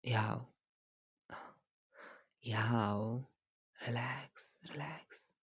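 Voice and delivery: soft whispered relax; whispered reassurance. Acted. Trainer whispering relax to his nervous client. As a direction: whisper to settle her nerves. Calming her quietly.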